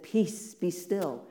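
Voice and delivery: offhand, no big show; casual dismissal. Retold or imitated. Jesus flicking fingers at the sea, casual offhand command. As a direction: flick it away, unbothered. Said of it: "as he said".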